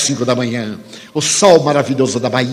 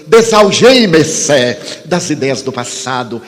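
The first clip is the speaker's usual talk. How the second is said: measured, fervent preaching with long pauses; sermon delivery. Acted. Preacher exhorting the audience to faith, fervent.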